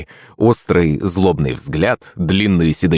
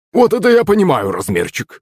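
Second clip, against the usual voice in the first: excited exclamation; 8 semitones higher than usual. Acted. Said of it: "воскликнул Захарыч".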